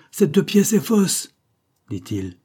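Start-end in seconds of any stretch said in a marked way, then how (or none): 0.1-1.3 a booming, slow denial, much higher and louder; proud, resounding defiance at full volume; ringing voice. A narrator's reading. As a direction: throw each word out slow and ringing, with full force. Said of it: "d'une voix retentissante".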